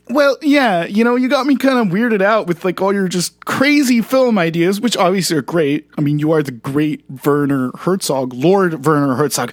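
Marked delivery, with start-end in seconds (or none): 6.0-9.5 lightly mimicking Herzog. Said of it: "you started to sound as if you were me".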